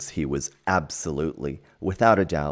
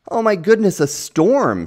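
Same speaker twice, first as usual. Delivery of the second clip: much higher and louder alarmed shout; 12 dB louder than usual. Acted. Bob alarmed as the storm arrives, loud shout. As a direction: yell a warning as the storm hits. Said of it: "shouted Bob".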